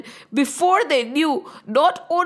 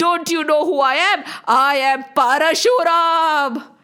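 put-on mildly raised, indignant old sage's threat; angry old man shouting; 2 semitones higher than usual. Angry old sage demands who broke Shiva's bow, acted mild storyteller's shout. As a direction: thunder at the culprit, without a full shout. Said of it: "shouting foul language".

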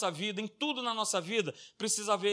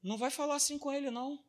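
daughter snapping; 7 semitones higher than usual. Retold or imitated. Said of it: "a filha virar e falar assim".

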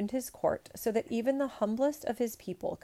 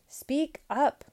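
high, loud imperial command; 8 semitones higher, 6 dB louder than usual. A narrator's reading. Emperor to mumbling peasant, loud command. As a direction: order it sharply, raised voice. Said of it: "commanded the emperor".

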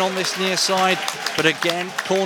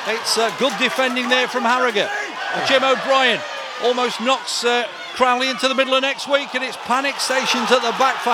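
higher, urgent play-by-play; excited commentary; 3 semitones higher than usual. Real, not acted. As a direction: call the scramble with urgency. Chaotic goalmouth action.

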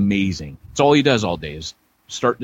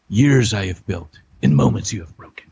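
Merlin; 4 semitones lower than usual. Acted. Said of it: "Merlin in Excalibur looks at Uther and goes".

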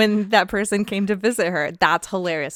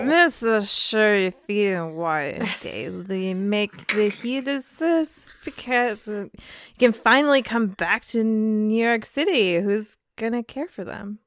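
put-on slow, slurred drunk reading; slower than usual. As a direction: slur it like you've had too much wine. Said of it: "we gotta read that in drunk voice".

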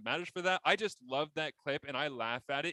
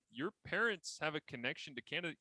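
excited news; 7 semitones higher than usual. Retold or imitated. Darren telling Jake Bird he's Canadian, excited. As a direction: break the news to him with delight. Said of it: "letting Jake Bird know".

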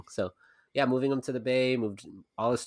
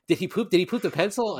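put-on anxious girlfriend; 9 semitones higher, 4 dB louder than usual. Girlfriend's anxious questions retold.

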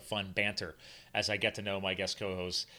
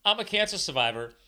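a lightly voiced cocky dog, higher and louder; voicing the dog; 5 semitones higher, 6 dB louder than usual. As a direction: speak for the three-legged dog, proud and pumped up. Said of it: "He's like".

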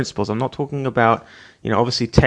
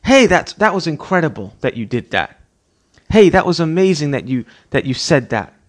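praising enthusiastically; 3 semitones higher, 4 dB louder than usual. Retold or imitated. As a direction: cheer the child on. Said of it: "jump at the opportunity to say".

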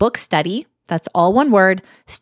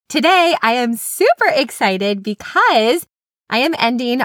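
super excited, higher and drawn out; enthusiastic; 4 semitones higher than usual. Real, not acted. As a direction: let real enthusiasm lift the voice, stretching the words. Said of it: "the enthusiasm in my voice".

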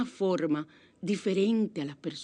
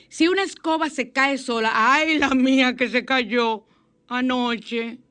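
excited; 5 semitones higher, 6 dB louder, slower than usual. Real, not acted. Anécdota emocionada de la escoba.

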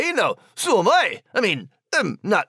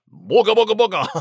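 mock monster; 4 dB louder, much faster than usual. Mock scaring the others.

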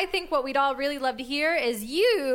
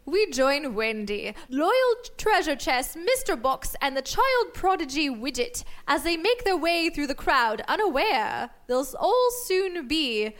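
story narration. Acted. Narrating episode recap.

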